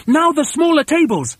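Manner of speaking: high, urgent shout; high-pitched bossy command; shouted order. A narrator's reading. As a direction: call out the next job excitedly. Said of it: "shouted Mugglewump".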